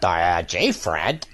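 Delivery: low, dopey cartoon sidekick; dumb twangy voice. Demoing Mel Blanc's first dumb Barney voice. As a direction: drawl it like a dim sidekick. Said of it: "and he talked like this".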